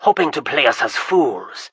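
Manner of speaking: loud, scornful scolding; angry accusation. Acted. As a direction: sneer at the trickster. Kappa accusing the stranger.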